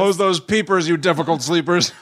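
mock slogan, lightly declaimed; a hint of poster-style proclamation; propaganda poster slogan. Joking propaganda poster for difficult sleepers, lightly declaimed slogan. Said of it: "that's my propaganda poster".

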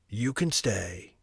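the sorcerer relenting toward Franz; lightly voiced stern sorcerer. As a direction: grant a grudging pardon.

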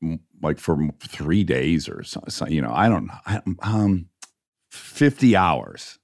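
imitating Charlie musing. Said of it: "And Charlie goes".

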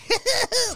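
shrill hick cackle way up high; high redneck laugh. Retold or imitated. Son imitating his dad's high redneck cackle. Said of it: "redneck, high pitch ... hickey laugh".

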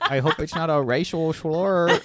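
words through laughter; laughing. Real, not acted. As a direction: laugh as you say it. Laughing while speaking.

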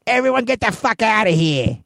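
high, put-on bartender yell; closing-time holler. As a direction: holler high to clear the whole bar. Bar staff hollering at closing time.

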